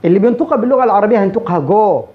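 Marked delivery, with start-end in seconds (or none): 1.6-2.0 جو with a rounded long "oo/o"; Arabic-style mispronunciation. Shown as a demonstration. Teacher showing Arab learners' go, rounded vowel. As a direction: say جو with a closed, rounded o. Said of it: "وهذه خطأ".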